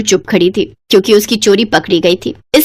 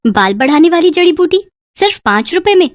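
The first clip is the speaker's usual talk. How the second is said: curious rising repeat; surprised question; 5 semitones higher than usual. Acted. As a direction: echo the seller's words with surprise. Girl repeats seller's words.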